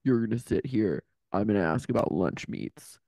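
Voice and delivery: low, bossy drill sergeant voice; harsh barking commands. Retold or imitated. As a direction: bark orders like a strict boss. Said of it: "cracks the whip".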